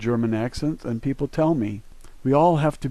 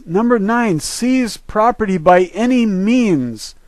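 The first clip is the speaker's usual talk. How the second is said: higher-pitched, worked-up insistence; indignant rant; 5 semitones higher, 4 dB louder than usual. Real, not acted. Speaker rallying listeners against government property seizures, indignant. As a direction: hammer out each accusation with mounting indignation.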